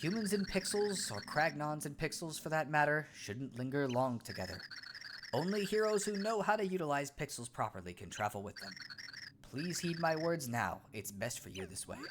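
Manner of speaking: soft, measured sage voice; calm wise pixel. Acted. Pixel answering the startled Cragnon, calm sage voice. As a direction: speak like a serene little oracle.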